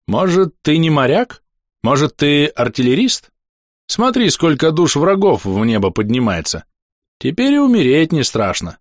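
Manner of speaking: high, animated monk; elated wonder. Acted. Blind monk lying back watching the sky, elated wonder. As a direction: marvel aloud with lifted voice.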